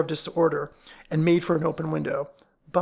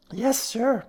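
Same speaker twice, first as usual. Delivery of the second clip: high, brusque working-class landlady; dismissive building housekeeper; gruff landlady voice; 7 semitones higher than usual. A narrator's reading.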